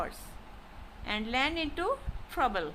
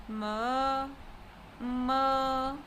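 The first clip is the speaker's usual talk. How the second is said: "ma" drawn out on a level pitch; high level tone on ma; 2 semitones lower, 3 dB quieter than usual. Shown as a demonstration. Teacher leading practice, "ma" in first tone. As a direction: hold "ma" steady with no rise or fall. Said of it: "said with the high level tone".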